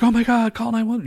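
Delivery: high-pitched mimicry of a panicking sister; mock panicked cry for help; imitated freak-out. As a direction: blurt it high, as if frantic. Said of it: "Zara's sister's freaking out".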